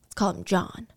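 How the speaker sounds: breathy conspiratorial whisper, barely audible. Acted. Storyteller to listeners, hushing a made-up name in a whisper. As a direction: lean in and whisper the fake name like a secret. Aside naming a cook in story.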